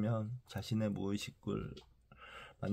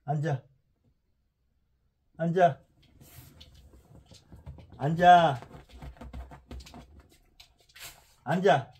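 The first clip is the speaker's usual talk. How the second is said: firm, high repeated sit commands; talking to a dog; 7 semitones higher, 7 dB louder than usual. Real, not acted.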